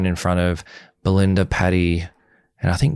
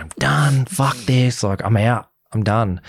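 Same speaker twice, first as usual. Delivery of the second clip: higher-pitched retold rant; 4 semitones higher, slower than usual. Storming out to waiting producers, retold rant. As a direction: imitate a fed-up outburst, not shouted. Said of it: "biggest rant".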